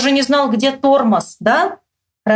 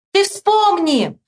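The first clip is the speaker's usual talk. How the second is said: high, slow holler; high drawn-out yell; shouted demand; 9 semitones higher, much slower than usual. A narrator's reading. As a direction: call it out, stretching the words. Boys shouting across yard.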